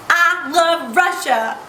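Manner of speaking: dramatic love. Real, not acted. Slow dramatic declaration.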